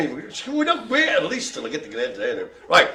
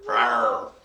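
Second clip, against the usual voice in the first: crap tiger roar; 5 semitones lower than usual. Pretend. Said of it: "I did a crap impre-, impersonation".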